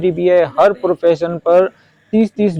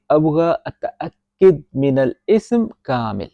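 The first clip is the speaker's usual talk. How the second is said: slow model sentence; slower than usual. Shown as a demonstration. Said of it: "تو اس کو Arabic میں بولیں گے".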